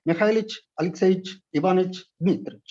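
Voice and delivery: "Mikhailich, Alexeyich" with the ov dropped; "Ivanich, Dmitrich" said the native way; short Russian patronymics. Shown as a demonstration. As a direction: clip each name to its spoken short form. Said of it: "the norm is to pronounce".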